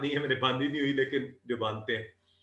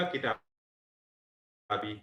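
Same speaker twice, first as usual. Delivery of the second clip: long drawn-out word; 5 semitones lower, 6 dB quieter, much slower than usual. Shown as a demonstration. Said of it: "का, यी".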